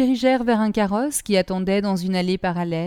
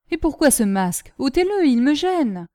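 growling; 6 semitones higher, 4 dB louder than usual. A narrator's reading. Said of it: "gronda le jeune homme".

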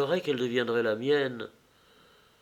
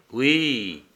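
mild hatred in a falling yes; hateful; 2 semitones lower than usual. A narrator's reading. Agrippine confirms it to Acté, with hatred. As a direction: answer with restrained hate. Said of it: "avec l'accent de la haine".

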